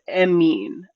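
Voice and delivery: Emin as two syllables, "eh-meen"; corrected pronunciation. Shown as a demonstration. Host passes on the answer, Emin said slowly as "eh-meen". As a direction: say Emin slowly, opening on a short e. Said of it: "It's pronounced".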